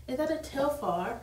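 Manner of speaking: a hint of a British woman's curious question; British accent. Quoting a British concert-goer, mild British accent. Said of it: "'Cause she was British".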